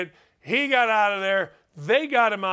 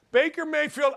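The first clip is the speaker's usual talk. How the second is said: calling out; 7 semitones higher than usual. Real, not acted. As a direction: call him out by name. Calling out the player.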